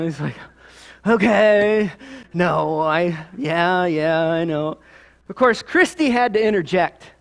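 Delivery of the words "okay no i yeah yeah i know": imitating a sulking child giving in; drawn-out, grudging mock concession; sulky admission. Son caught out by his father, mock sulky admission. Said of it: "he's sulked down".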